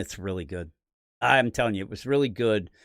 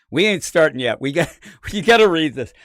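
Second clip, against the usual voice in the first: louder, laughing insistence; excited laughing plea; laughing urge; 3 semitones higher, 6 dB louder than usual. Retold or imitated. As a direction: push him to read it through giggles. Urging co-host, laughing.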